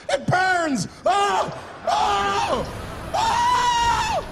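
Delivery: very high, loud pained shrieks; burning scream. Retold or imitated. Guy hit on the forehead freaking out, very high loud shrieks. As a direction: wail like your face is burning. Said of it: "This guy was freaking out".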